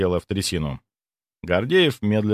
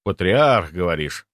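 thoughtful; 2 semitones lower than usual. Acted. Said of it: "Задумчиво проговорил я".

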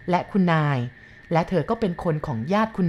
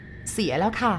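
slow, pressed through the jaw; teeth-clenched, slow reply; 4 semitones higher, much slower than usual. A narrator's reading. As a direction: hold the anger in behind the teeth. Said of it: "เธอพูดอย่างกัดกราม".

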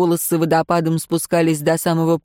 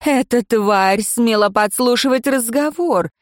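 half-hearted accusation; 4 semitones higher than usual. Acted. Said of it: "без особого энтузиазма".

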